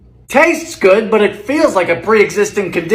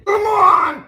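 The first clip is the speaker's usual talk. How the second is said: exasperated cry; 10 semitones higher than usual. Real, not acted. Exasperated at the cake.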